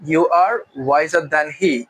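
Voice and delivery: very slow, stress on are; slow formal variant. Shown as a demonstration. Teacher giving the formal he version, slowly. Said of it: "তুমি তার চেয়ে জ্ঞানী".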